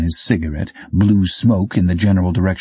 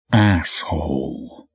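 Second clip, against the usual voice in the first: grieving a friend; 2 semitones lower, much slower than usual. A narrator's reading. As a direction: say it like mourning a lodge brother. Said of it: "like maybe the dead guy had been a close personal friend".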